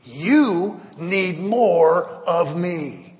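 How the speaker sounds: slow, calm divine voice; God's voice. Pretend. God answering the pastor, slow and calm. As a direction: deliver it slow and weighty as God. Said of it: "what he's been saying to me".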